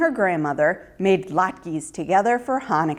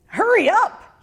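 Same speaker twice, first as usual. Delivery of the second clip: higher, louder impatient wolf; demanding; 11 semitones higher, 3 dB louder than usual. A narrator's reading. Hungry wolf demanding Ruthie hurry, higher and louder. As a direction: bark at her to hurry. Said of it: "he demanded".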